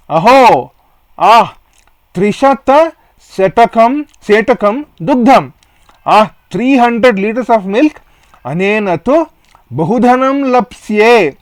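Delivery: a greedy milkman delighting in coming wealth; happy. Acted. Chandan gloating over three hundred liters of milk, gleeful. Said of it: "Becoming happy".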